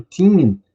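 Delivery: put-on teen said loud and falling; stressed teen. Shown as a demonstration. Teacher warning students about thirteen, punched teen. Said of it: "se a gente não carregar no in".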